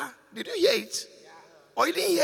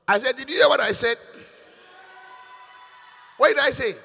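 louder, insistent scolding; 6 dB louder than usual. Real, not acted. Pastor scolding choir for not answering, loudly. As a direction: demand the answer.

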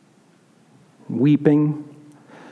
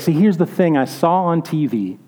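worried grandma; 3 semitones higher than usual. Retold or imitated. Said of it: "she's like".

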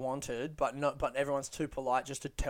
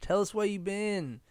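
mock enthusiasm; 5 semitones higher, slower than usual. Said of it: "kind of mocking him".

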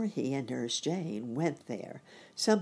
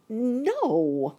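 high, loud, drawn-out cry; exclaiming; 8 semitones higher, 6 dB louder than usual. A narrator's reading. Uncle suddenly spotting a safer landing, loud high exclamation. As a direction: burst out with a long exclamation. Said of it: "exclaimed the bunny uncle".

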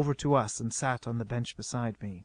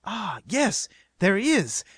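higher, dawning realization; sudden recollection; 5 semitones higher, slower than usual. A narrator's reading. Queen suddenly recalls the tubing, interrupting herself. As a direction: interrupt yourself as you remember. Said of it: "Then she interrupted herself".

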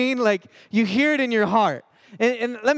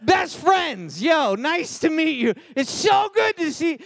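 startled new friends; 8 semitones higher, slower than usual. Retold or imitated. Bullies suddenly befriending him, high excited shouting. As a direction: gush like a spooked new best friend. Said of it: "they're just like".

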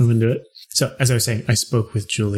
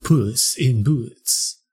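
put-on lisping Spanish accent; much slower than usual. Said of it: "the lisping Spanish".

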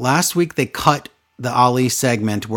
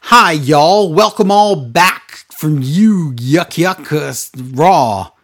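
mock Charlie; 3 dB louder, slower than usual. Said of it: "Charlie also did her".

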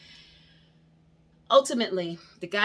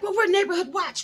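retold claim; 11 semitones higher, 6 dB louder than usual. Neighbor asserting authority.

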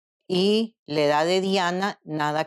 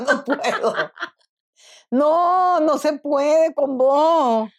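loud, slow laughing protest; can't get through it for laughing; laughing helplessly; 9 semitones higher, 5 dB louder, slower than usual. Real, not acted. Mother can't stop laughing. (sin poder parar de reír)

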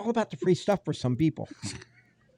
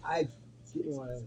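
hushed, trailing whisper; whispering on the phone; 14 dB quieter than usual. Real, not acted. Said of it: "Why are you whispering, Kenny?".

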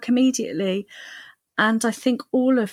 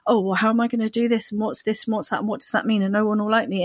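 quick worried chatter; darting anxious mind; lightly voiced fretting; anxious thoughts; faster than usual. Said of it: "your mind is darting off".

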